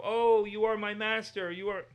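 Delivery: high, loud, slow fawning; bow and scrape with the voice; groveling servant. Retold or imitated. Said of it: "constant self-belittling".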